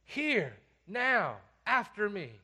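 emphatic order, one piece at a time; demanding command. Acted. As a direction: demand it with authority. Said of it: "It's demanding, it's powerful".

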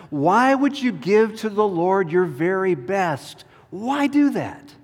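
high, wheedling tempter; tempting voice. Acted. Tempter whispering to Abel, high and wheedling. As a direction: coax Abel to hold back. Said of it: "Can you hear the voice?".

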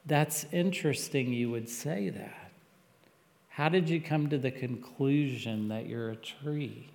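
soft, even and nonjudgmental; calm poker face. Shown as a demonstration. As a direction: keep a straight face and ask gently. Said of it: "have a good Christian poker face".

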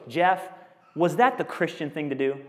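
needling question, lightly mimicked; mocking. Snarky coworker chides Jeff over eggshells in the sink, lightly mocking. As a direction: imitate a snarky, sanctimonious rebuke. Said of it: "He's mocking me".

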